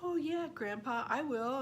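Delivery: put-on high, sing-song child's voice; imitated child, pitched well up; little girl agreeing. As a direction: promise like an obliging little girl. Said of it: "And she goes".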